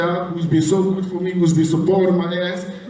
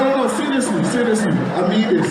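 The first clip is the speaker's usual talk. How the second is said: laughing high protest, no no seriously; half-laughing insistence, trying to be taken seriously; 5 semitones higher than usual. Real, not acted. Laughing as he insists to the laughing crowd he means it.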